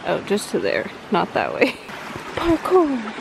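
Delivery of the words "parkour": excited shout. Real, not acted. Calls out crossing creek.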